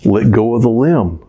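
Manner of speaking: lightly voiced deity calmly answering a falling man; voice of God. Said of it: "And the voice said".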